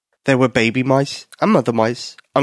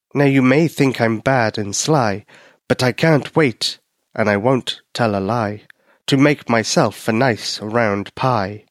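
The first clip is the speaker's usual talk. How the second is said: strange cat voice. Acted. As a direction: purr the threat through the door slowly. Cat keeps rhyming.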